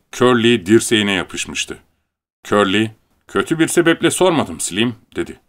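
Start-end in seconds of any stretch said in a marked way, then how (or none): 3.3-4.9 higher-pitched defensive protest. A narrator's reading. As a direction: protest your innocence, voice raised in pitch. Curly defends himself to Slim. (savunmaya geçmiş, itiraz eden)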